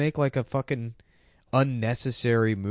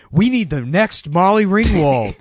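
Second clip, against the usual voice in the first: mock casting director; 8 semitones higher, 8 dB louder, slower than usual. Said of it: "the casting director who said".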